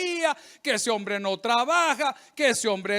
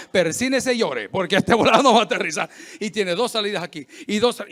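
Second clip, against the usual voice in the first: laughing mock announcement; 5 dB louder than usual.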